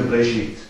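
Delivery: BERESHIT with no vowel between B and R; silent E. Shown as a demonstration. Teacher showing some Hebrew speakers' way, Bereshit with silent first E. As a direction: run B straight into R in Bereshit, as Breshit. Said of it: "dann ist es überhaupt ganz stumm".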